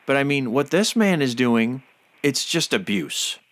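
real indignation, with heavy emphasis; upset. Real, not acted. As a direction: stress the key words, upset and outraged. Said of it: "it makes me really upset".

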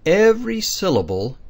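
every said high and loud; stress on every. Shown as a demonstration. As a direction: punch the word every. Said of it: "emphasis on every in rule".

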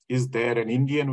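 "Indian" weighted and held as if in doubt; stress on Indian. Shown as a demonstration. Lecturer questioning Indian as a category, stress on Indian. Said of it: "he even questions the very notion of Indian".

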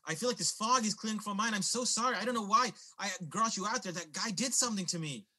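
high, earnest apology; apologetic woman. Acted. Woman from the diner explaining herself to David, apologetic.

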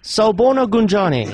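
Zulu recorded greeting; Zulu phone menu. Pretend. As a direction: greet as an automated Zulu operator.

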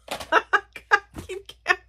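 high, helpless laughter through the words; real laughing fit, words squeezed out high; laughing at herself. Real, not acted. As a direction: giggle through it after your own mix-up. Laughs at own numbering mistake.

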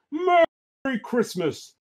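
lightly voiced jolly Santa. Santa sending children to bed, light jolly voice. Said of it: "cries Santa".

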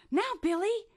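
rally him to take off; eager high call to a friend; cheering on. Acted. Shelley cheering Billy on.

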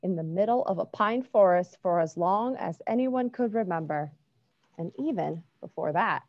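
gentle storybook narration; reading to children. A narrator's reading. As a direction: read it like bedtime story. Reads a picture book aloud.

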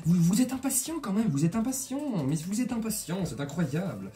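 high, soft teasing reproach; mock exasperation. Host teasing impatient viewers about the price, mock exasperation. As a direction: playfully scold in a small, high voice.

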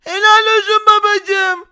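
put-on high, loud, slow kid cheer; squeaky admiring child; child's voice. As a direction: play the kid praising proudly.

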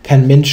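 "Mensch" emphasised on the repeat; stress on Mensch. Real, not acted. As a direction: press on the word "Mensch". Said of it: "die Betonung auf Mensch".

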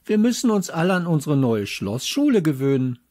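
know-it-all stressing Schlossschule; correcting. A narrator's reading. Know-it-all boy corrects the teacher, stressing Schlossschule. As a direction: lean on Schlossschule to correct her. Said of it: "verbesserte sie der kleine Klugscheißer".

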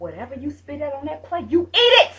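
rising to a loud stern order. Retold or imitated. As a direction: lay down the law, rising loud. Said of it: "I may sound mean, I may sound harsh".

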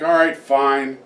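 low, resigned giving-in; grudging resignation. Acted. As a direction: give in grudgingly, voice dropped low. Cornered lover gives in to boy.

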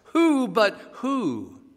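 "Who" drawn out high, twice; slow right down and stretch each "Who"; stress on both WHOs. Shown as a demonstration. Preacher showing the doubled word in the text, stressed WHO. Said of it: "who twice".

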